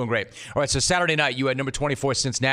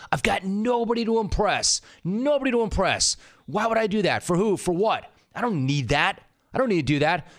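put-on raised, insistent old Boston dad; imitating his old man; 7 semitones higher than usual. Son recalls father refusing luxury, mock gruff. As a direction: voice Pops brushing off the idea, pitched up.

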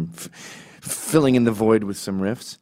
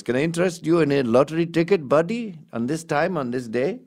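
higher, lightly hammed-up ticket seller; mock salesman pitch; 7 semitones higher than usual. Imitating the lottery clerk upselling the comic.

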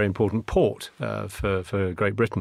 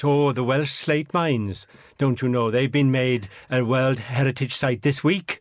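slow, hammed-up Welsh accent; mock Welsh accent, drawn out playfully; bad Welsh accent; slower than usual. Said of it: "stop him doing a bad Welsh accent".

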